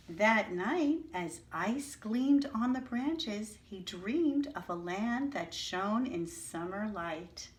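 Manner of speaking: slow, dreamy storybook reading; story narration. Acted. Teacher reading the story to her class, dreamy storybook narration. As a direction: paint the winter night for the children. Reads picture book aloud.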